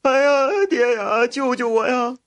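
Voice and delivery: high-pitched panicked wail for help; panicked cry. A narrator's reading. Spoiled son begging his father to save him, panicked cry. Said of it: "他惊慌失措地喊道".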